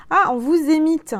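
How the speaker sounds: light up at the discovery; surprised realisation. Real, not acted. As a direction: aha moment. Realising the wordplay.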